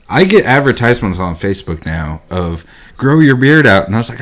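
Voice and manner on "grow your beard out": higher, louder ad-style quote; mock ad voice. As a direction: say it like an online ad. First take of ad quote.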